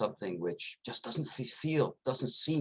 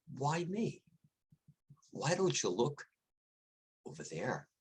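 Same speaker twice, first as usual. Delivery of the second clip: sly coyote; 4 semitones higher, 4 dB quieter than usual. Acted. Sly coyote deflects the lion.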